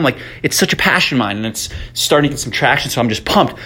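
excited and winded; breathy from pacing; out of breath. Real, not acted. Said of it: "sorry, I'm out of breath".

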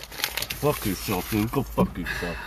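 slow, strained through the burn; forcing words past a burning tongue; burning mouth. Real, not acted. Choking on habanero heat.

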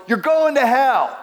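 mild mock shout of condemnation; mock yell. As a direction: imitate a street preacher's yell. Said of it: "he looks right at me and he yells".

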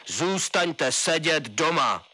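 slow, firm "zůstaňte sedět doma"; drawn-out command "zůstaňte sedět doma"; stern order. A narrator's reading. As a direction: order to stay home. Colonel order.

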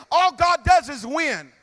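fiery sermon voice, rising to shouts; preaching. Acted. Preacher fires up the congregation, full force.

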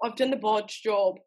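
put-on British repeat; pleased British copy; attempted British accent. Shown as a demonstration. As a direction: imitate British "bodge job". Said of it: "That was damn good".

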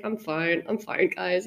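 low, softened mock reassurance; hiding tears. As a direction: pretend you're fine while silently crying. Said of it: "tears are in my eyes".

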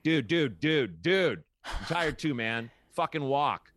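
half-playful dad voice, no-nonsense; firm dad. Retold or imitated. Dad to his tired son carrying boxes, firm and blunt.

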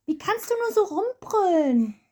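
a hint of an annoyed man, slow; scolding bystander. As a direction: tell him off, mildly stern. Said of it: "Soll ich einfach mal grad den Mann spielen".

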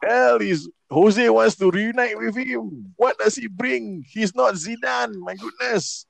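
high, slow disbelief; exasperated. Real, not acted. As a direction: rant in disbelief. Exasperated rant about Lingard.

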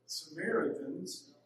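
"Samaritans" drawn out slowly through the nose, rising at the end; nasal, slow "Samaritans" with a lift at the end. Shown as a demonstration. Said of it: "you have to say it with your nose".

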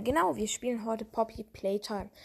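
burp slips out mid-sentence; burping after fizzy drink. Real, not acted. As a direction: talk through a small burp. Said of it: "ich musste aufstoßen". (mit Aufstoßen sprechen)

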